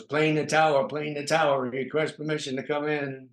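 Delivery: mock radio call to the tower; pilot radio call. Comic plays a pilot in an improv.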